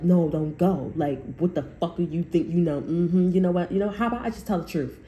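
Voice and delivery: lightly voiced old witch scoffing. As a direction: play a spiteful old witch, half-laughing. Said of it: "looks like an old, old witch".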